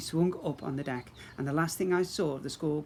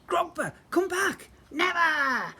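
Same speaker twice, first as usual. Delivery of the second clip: high, loud urgent call; 14 semitones higher, 5 dB louder, slower than usual. Acted. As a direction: yell it across the garden. Calling out a warning.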